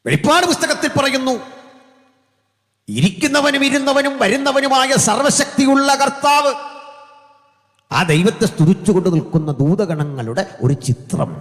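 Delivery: very high, loud proclamation; full-force preaching. Real, not acted. Preacher declaring the Almighty from Revelation, full-force preaching. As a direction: cry out the scripture to the congregation.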